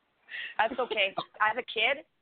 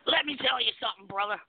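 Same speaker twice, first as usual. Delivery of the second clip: heroic rallying shout. Retold or imitated. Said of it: "one of the most famous lines in every wrestling promo".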